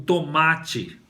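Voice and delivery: tomate drawn out in syllables; slow articulation. Shown as a demonstration. Teacher linking tomate to the end of oito, slowly articulated. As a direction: stretch tomate, sounding the opening TO. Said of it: "o oito também termina com to".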